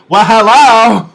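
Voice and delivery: high, loud, slow sassy greeting; flirty hello. Pretend. Reviewer greeting a queen on screen, loud high sass. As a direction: draw out the hello like you're checking someone out.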